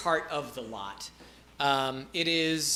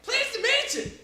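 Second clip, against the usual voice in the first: much higher, laid-back dude voice; Dale the peasant. Acted. Peasant Dale introduces himself, high and chill. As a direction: shrug it off easily. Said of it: "He's like".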